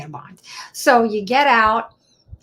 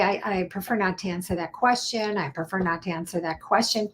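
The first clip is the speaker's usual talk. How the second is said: softer, calm, polite refusal; 5 dB quieter than usual. Shown as a demonstration. Lawyer modelling refusal for client, calm and polite.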